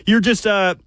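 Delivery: ingratiating praise; butter him up with measured sincerity; changed, grateful tone. Real, not acted. Co-host flattering Buck for a ticket, ingratiating. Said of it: "my tone has changed, Buck".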